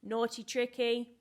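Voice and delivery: loud, slow mock telling-off; a playful loud telling-off; mock scolding. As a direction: scold the naughty puppet playfully. Scolding the trick character.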